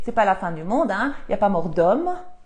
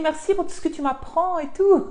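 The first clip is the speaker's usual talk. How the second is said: laughing; 7 semitones higher than usual. Retold or imitated. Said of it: "Val, elle me dit".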